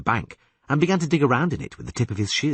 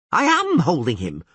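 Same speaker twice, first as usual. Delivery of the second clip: higher, straining through effort; strained groan; 7 semitones higher, 4 dB louder than usual. A narrator's reading. Poet hauling the catfish line, groaning with effort. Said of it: "groaned the poet".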